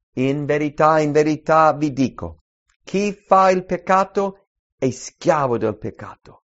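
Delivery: loud, ringing Bible reading; scripture reading. Acted. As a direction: proclaim the verses to the congregation. Preacher reads Jesus' words aloud.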